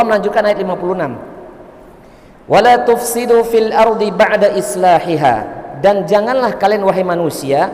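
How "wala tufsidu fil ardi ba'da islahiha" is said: slow, measured Quran recitation; verse recitation. Real, not acted.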